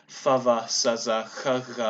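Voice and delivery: fricatives in voiceless-voiced pairs, "f, v, s, z, ch, g"; voicing contrast. Shown as a demonstration. Conlanger listing proto-language fricatives, each voiceless then voiced. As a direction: say "f, v, s, z, ch, g" with "ch" and "g" as throaty fricatives. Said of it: "Fricatives also with voicing distinction".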